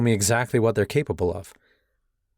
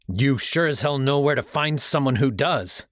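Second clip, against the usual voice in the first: menacing growl; 5 semitones higher than usual. Acted. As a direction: growl it through the threat. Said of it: "I growled".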